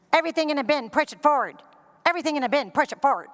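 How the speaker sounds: flat repetitive robot voice; lightly voiced robotic security agent; robotic TSA agent. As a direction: drone it like a machine. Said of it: "She was like a robot".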